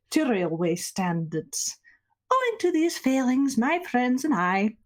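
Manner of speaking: formal, measured conductor announcement voice; train announcement. Acted. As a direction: address all passengers over the intercom. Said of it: "he's gonna make a train announcement".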